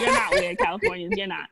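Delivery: high-pitched, amused backtracking; laughing reassurance. Real, not acted. New Yorker joking with Californians they're not weird, laughing reassurance.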